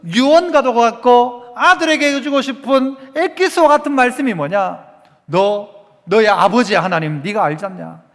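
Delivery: emphatic, driving sermon delivery; forceful preaching. Acted. Preacher urging the congregation to seek God, forceful preaching. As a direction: press each phrase home like a preacher.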